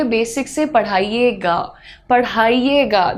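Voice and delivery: well-mannered request. Shown as a demonstration. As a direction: ask a teacher respectfully, taking your time. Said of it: "That shows your manners".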